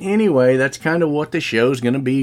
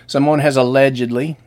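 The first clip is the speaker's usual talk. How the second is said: allegedly leaned on a bit, said a touch more firmly; stress on allegedly. Shown as a demonstration. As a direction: give the word allegedly a light extra push. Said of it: "I stress the word allegedly".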